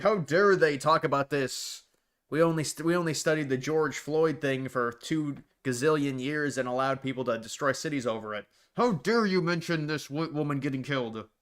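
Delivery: mildly outraged imitation of an angry pundit; mock indignation. Commentator imitating an angry pundit for viewers, mock indignant. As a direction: act out his indignant "how dare they" tirade lightly. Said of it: "Yeah, he was angry".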